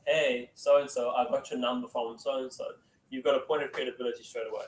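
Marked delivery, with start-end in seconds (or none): 0.1-2.8 right warm opener. Shown as a demonstration. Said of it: "I'm like".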